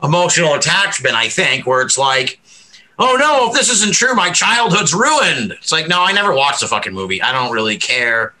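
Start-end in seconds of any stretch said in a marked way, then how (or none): 3.0-5.5 higher, hammed-up wail of dismay, slowing at the end; mock dismay. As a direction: parody a fan whose childhood is ruined. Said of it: "this pearl clutching".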